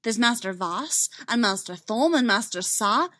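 earnest and emphatic; heated insistence. Acted. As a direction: argue the case with urgency. Heated argument in the story.

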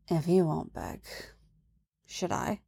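low-volume, intimate murmur; whisper. A narrator's reading. He whispers to her after a kiss, whispering softly. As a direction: drop to a near-whisper. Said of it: "and whispers".

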